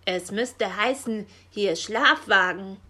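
a touch of angry raven scorn; hissed rebuke. A narrator's reading. Raven correcting Frau Elster on the phone, irritated rebuke. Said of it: "zischte Meister Schwarzrock".

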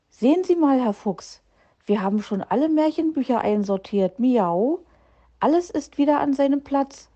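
high, bright-eyed little cat proudly reporting; a small cat bursting to show off the tidy shelves, meowing; eager kitten voice. Acted. Kitten Mauz proudly tells Herr Fuchs the books are sorted, eager high kitten voice.

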